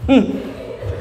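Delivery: imitated mother's menacing little laugh; short closed-mouth mock snicker; ominous chuckle. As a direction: chuckle as a veiled threat. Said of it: "Tapi kalau dia sudah".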